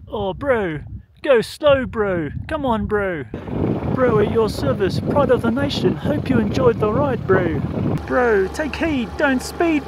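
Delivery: high, loud Kiwi bloke voice; New Zealand accent. Pretend. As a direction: read the road signs like a New Zealander. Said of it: "reading in a New Zealand accent".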